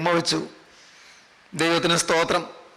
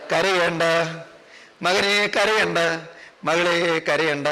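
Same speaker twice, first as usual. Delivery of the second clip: tender consoling; slower than usual. Acted. Preacher as Jesus telling son and daughter not to cry, tenderly.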